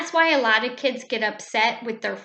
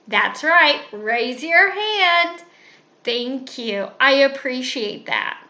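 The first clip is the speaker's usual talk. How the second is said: raised, higher teacher voice correcting a chatty pupil; firm teacher scolding; 5 semitones higher, 3 dB louder than usual. Shown as a demonstration. Teacher to class, demonstrating a firm correction. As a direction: stop the interruption, then thank them.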